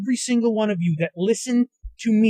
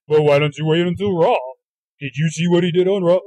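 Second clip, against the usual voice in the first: low, put-on podcaster voice; mocking low-voiced pundit; 3 semitones lower, 3 dB louder than usual. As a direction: play a podcaster questioning the complaint, pitched down. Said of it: "there's gonna be fucking podcasts in this week saying".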